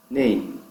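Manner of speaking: "name" ending on lips shut for the M; closed final M. Shown as a demonstration. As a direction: close "name" firmly on a hummed M. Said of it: "a boca fecha quando o M aparece". ("name" fechando a boca no M)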